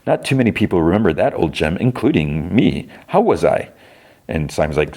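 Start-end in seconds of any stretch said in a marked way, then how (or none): 0.1-3.7 Trevor Slattery. Retold or imitated. Flattered actor asks a fan for praise, lightly voiced. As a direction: savor being recognized in a put-on actor voice. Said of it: "And Trevor's like".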